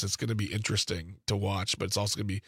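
sober, slightly subdued prediction; no fun in voice. Real, not acted. Pundit forecasting awkward infighting to co-host, soberly. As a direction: say it without any glee, voice kept low. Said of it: "I don't say this with fun in my voice".

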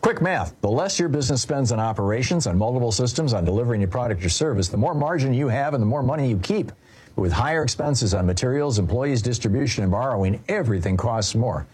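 brisk, punchy sponsor read; polished radio commercial delivery. Acted. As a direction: pitch it crisply to business owners. Reads a business software ad.

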